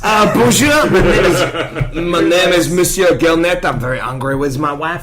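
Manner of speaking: comic French accent, hammed up. Introducing Monsieur Gilnet to the table, in French accent. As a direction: play an indignant Frenchman with a thick French accent. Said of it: "Can you do a French accent?".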